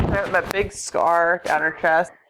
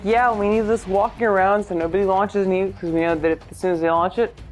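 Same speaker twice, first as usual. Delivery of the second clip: Bond villain. Retold or imitated. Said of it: "as a Bond villain".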